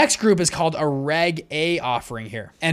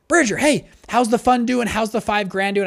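eager caller; 5 semitones higher than usual. Retold or imitated. Buddy eagerly phoning about his money.

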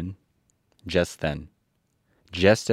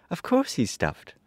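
put-on high girl's voice, a touch cross; a child snapping at the lion; little girl irritated; still angry; 10 semitones higher than usual. A narrator's reading. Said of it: "who was still angry".

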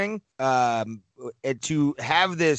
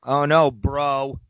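slow New York accent bro; 4 dB louder, slower than usual. Real, not acted. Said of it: "my New York accent's coming out".

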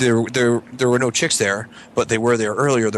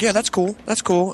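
imitating Jason; 10 semitones higher, slower than usual. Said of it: "and he's like".

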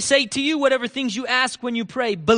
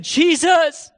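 high, loud cry for help; pleading cry; 8 semitones higher, 6 dB louder than usual. Acted. Leper falls before Jesus, loud high pleading cry. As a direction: call out urgently, much higher.

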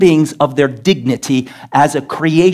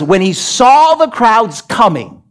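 raised, urgent pulpit delivery; heated sermon storytelling, pitched up; preaching at full force; 5 semitones higher than usual. Real, not acted. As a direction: preach it higher, driving through the story.

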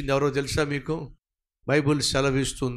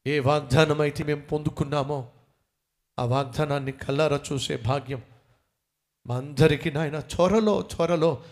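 earnest prayer of thanks over music; fervent prayer; 2 semitones higher than usual. Acted. Pastor leads the congregation in thankful prayer, fervent. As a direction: pray aloud with fervent thanksgiving.

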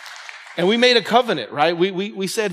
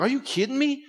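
riled-up outburst; 5 semitones higher, 3 dB quieter than usual. Retold or imitated. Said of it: "I'll get riled up and be like".

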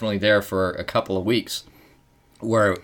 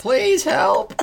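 mock plea; 14 semitones higher than usual. Joking plea to absent viewers.

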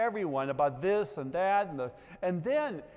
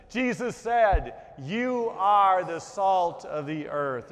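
"You are the salt of the earth" louder and slow, leading everyone; louder group recitation; 7 dB louder, slower than usual. Shown as a demonstration. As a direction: lead the whole congregation, louder. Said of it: "Let's try it again. Together".

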